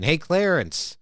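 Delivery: a half-hearted movie-star impression of a tipsy dad; Jimmy Stewart voice. Coach doing his dad's Jimmy Stewart for a student, light impression. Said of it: "his Jimmy Stewart impression".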